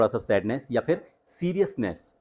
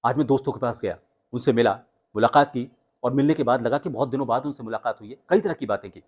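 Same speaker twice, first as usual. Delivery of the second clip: fast telling. Shown as a demonstration. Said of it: "अब fast और slow".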